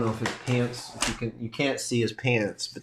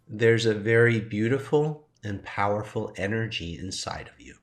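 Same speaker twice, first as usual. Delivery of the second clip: soft tone. Retold or imitated. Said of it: "in a softer tone".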